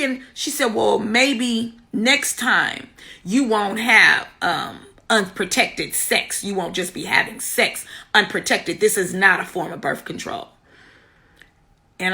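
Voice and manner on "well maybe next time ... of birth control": low, soft, measured imitation of a nurse's reproach; retold lecturing nurse. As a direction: quote a quietly scolding nurse, pitched down.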